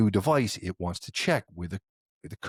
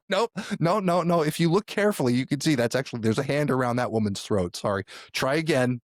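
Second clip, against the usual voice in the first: mock captcha voice; 4 semitones higher than usual. Captcha rejecting the answer.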